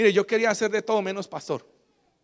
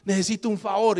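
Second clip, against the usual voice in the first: imitating a scared friend; 3 semitones higher, 4 dB louder than usual. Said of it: "el hombre sube asustado".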